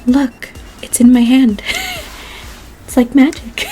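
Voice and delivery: playful mock-grand shout as a portrait; fat lady portrait. Holding a coffee mug, mock-marvelling in a lightly voiced fat lady voice. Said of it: "I sound like the fucking".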